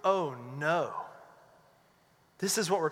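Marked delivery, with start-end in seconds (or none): 0.0-0.9 dismayed oh no. Retold or imitated.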